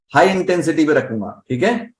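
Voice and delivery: ordinary delivery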